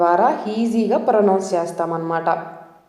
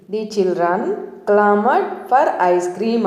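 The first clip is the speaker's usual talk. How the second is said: very slow, each word spaced out; slow example sentence; much slower than usual. Shown as a demonstration. Teacher reads the second example very slowly to learners. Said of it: "ఇంకొక example చూద్దాం".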